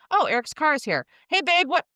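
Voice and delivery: mock-puzzled call to babe. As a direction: call out for the partner, confused. Imagined arrival at home.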